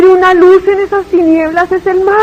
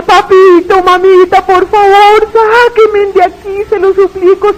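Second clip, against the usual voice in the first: calling out, begging; 4 semitones higher than usual. Retold or imitated. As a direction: shout up to your parents for rescue. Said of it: "Empecé a gritarle".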